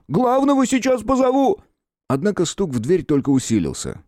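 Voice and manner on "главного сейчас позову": high, loud shout. Acted. Guard shouts he will fetch the chief, high and loud. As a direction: yell back that the boss is coming. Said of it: "крикнул он".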